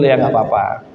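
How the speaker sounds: low, calm advice, a hint of the Prophet speaking; lightly voiced wise teacher, patient; counselling gently, slowly in places; gentle prophet's voice. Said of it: "Kata Rasul".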